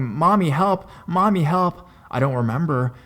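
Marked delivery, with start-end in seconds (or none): 0.0-0.9 high, loud call for mom; crying for help. Retold or imitated. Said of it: "She says I kept go-, going". 1.1-1.9 high, loud repeated call; crying for help again. Retold or imitated. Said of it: "She says I kept go-, going".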